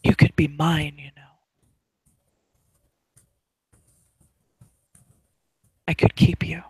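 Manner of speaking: intimate whisper into an ear; hushed, coaxing in-character whisper. Acted. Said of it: "She whispers into her ear".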